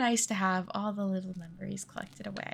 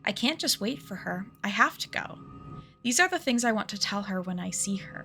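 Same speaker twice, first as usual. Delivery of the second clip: reading the game's story aloud, lightly voiced; a hint of storybook narration; reading game text. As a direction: read the character's memory to the viewers.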